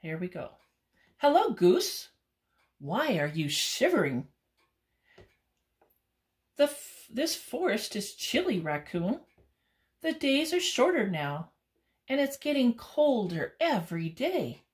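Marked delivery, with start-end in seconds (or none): 1.2-4.3 raccoon voice. Acted. Raccoon greeting a shivering goose, lightly voiced. 6.6-14.6 high, chilly goose voice; a shivering goose, voice up high. Acted. Goose telling raccoon the forest is chilly, high voice.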